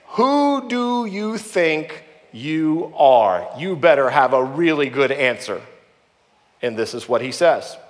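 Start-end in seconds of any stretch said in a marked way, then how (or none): 0.1-5.6 slow, drawn-out scolding parent; stern parent. Retold or imitated. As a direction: drag out "Who do you think you are?" like a parent reprimanding. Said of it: "every parent has asked their kid this".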